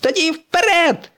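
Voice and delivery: high rallying cry; urging call. Acted. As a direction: spur your friend onward. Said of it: "закликав Блискавка Маквін". (заклик високим голосом)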